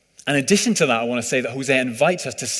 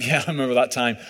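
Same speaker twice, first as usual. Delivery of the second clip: chuckle, then say it through a laugh; laughing along at an old memory; laughing reply; faster than usual. Retold or imitated. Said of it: "now we just laugh".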